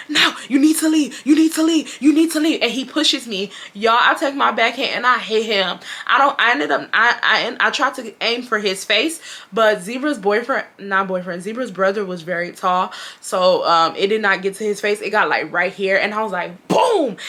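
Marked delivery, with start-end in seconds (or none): 0.1-2.6 high, insistent mock yell; retold scream, pitched up but held back. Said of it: "Like, he starts screaming". 16.7-17.2 high, punchy boom falling in pitch; exclaimed sound effect, pitched way up; imitated impact. Imitates the blow landing.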